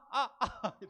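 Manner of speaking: mock yelp of pain, high and loud, with a laugh; imitated pain cry. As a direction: act out the wife's cry when her calf is rubbed. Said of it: "비명을 지릅니다". (아내의 비명을 웃으며 흉내 낸 아픈 외침)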